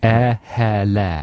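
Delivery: falling, posh English vowels; posh English accent. Acted. Trying out the phonetic trick, posh English accent. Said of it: "makes you sound posh".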